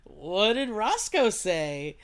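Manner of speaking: slow, drawn-out mock question; imitating Wendy. Wendy prying about Roscoe's reaction, imitated slowly. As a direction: mimic her pointed asking, stretched out. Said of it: "she straight up is like".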